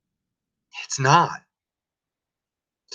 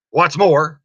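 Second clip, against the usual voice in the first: a lightly voiced Lorax, a bit higher and sorrowful; sending his creatures off, sadly; mournful Lorax; 3 semitones higher, 5 dB louder than usual.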